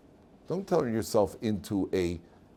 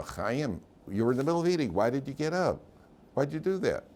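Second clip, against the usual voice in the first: higher-pitched, lightly voiced wife; imitated questioning wife; 5 semitones higher than usual. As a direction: question him like a puzzled wife. Voices a wife questioning her husband.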